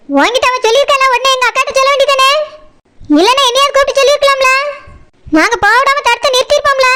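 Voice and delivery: rapid, reproachful telling-off; quick-fire indignant blame; angry scolding. Acted. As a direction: scold her in a fast rush, no shouting. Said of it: "நீங்க கோவப்படாதீங்க".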